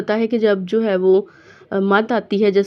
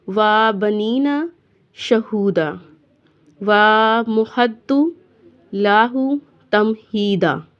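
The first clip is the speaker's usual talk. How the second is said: recitation; much slower than usual. Shown as a demonstration. Teacher recites verse.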